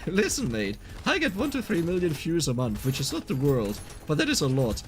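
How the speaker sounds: heated. Real, not acted. Streamer arguing with demanding commenters about views, heated. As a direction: argue the point, pitch riding high. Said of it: "why I get heated up so much right now".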